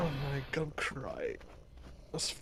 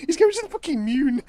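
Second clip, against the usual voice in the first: high and loud, faster; excited shout; 9 semitones higher, 8 dB louder, faster than usual. Real, not acted. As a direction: cheer it out in delight. Watching character fly off.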